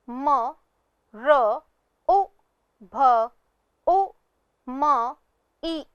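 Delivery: म र उ भ उ म ई, each sound apart; spelled sound by sound. Shown as a demonstration. Teacher to pupils, sounding out मरुभूमि. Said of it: "तीसरा शब्द है".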